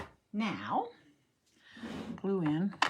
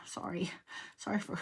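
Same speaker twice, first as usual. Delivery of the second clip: whisper; 6 dB quieter than usual. Real, not acted. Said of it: "sorry for grumbling".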